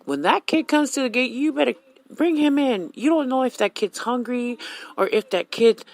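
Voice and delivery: high, loud, urgent lecturing; emphatic mom instructions. Retold or imitated. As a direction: drive the point home to her son. Mother instructing son firmly.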